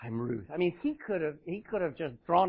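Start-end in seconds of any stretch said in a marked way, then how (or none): 0.0-0.4 soft, low, understated reply; calm. Acted. Woman calmly answering the man she was sent to. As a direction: answer gently, with a touch of calm. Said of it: "She's calm".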